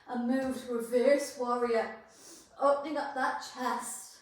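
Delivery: breathless, talking through the effort; puffing between the words; out of breath. Real, not acted. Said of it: "Oh, I'm so out of breath".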